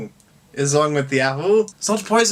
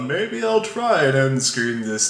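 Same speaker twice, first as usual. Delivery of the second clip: slow fumbling; much slower than usual. Real, not acted. Fumbling the end screen.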